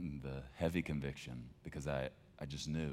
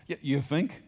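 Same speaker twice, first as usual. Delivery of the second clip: sarcastic; 10 semitones higher, 10 dB louder than usual. Real, not acted. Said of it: "sarcastic aside".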